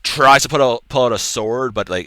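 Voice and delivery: ordinary talk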